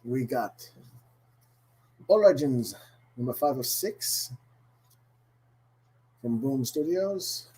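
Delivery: bad, hammy Irish accent. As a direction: lay on a cheesy Irish brogue. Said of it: "doing a really bad Irish accent today".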